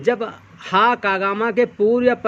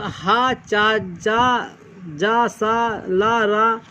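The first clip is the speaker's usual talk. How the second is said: slow letter list; much slower than usual. Shown as a demonstration. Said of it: "अब कहा गया है".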